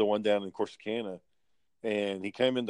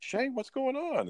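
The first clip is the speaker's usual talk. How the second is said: manager's voice; slower than usual. Retold or imitated.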